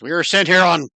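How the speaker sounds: a hint of a stiff official hobgoblin; lightly voiced soldier, reciting orders. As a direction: goblin guard insists, faintly voiced. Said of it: "the female hobgoblin holding the sprayer says".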